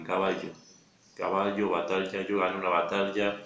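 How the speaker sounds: quick everyday way. Shown as a demonstration. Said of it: "lo diría rápido".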